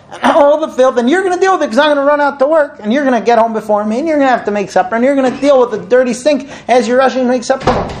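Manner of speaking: acted fed-up wife venting; exasperated complaint. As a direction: pile up each chore in rising indignation. Acts out wife's piled-up grievance.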